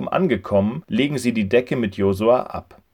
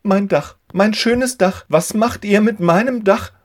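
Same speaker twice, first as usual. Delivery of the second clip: louder, higher dismayed outcry; upset cry; 11 semitones higher, 5 dB louder than usual. A narrator's reading. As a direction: wail over the broken roof. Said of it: "ruft Simon".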